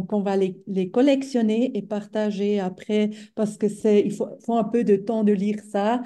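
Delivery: speaking French with a foreign accent; non-native French speaker. Real, not acted. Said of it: "Pardon, mon français, c'est pas très fort".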